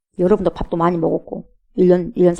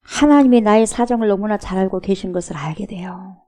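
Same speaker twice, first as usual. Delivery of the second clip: ordinary talk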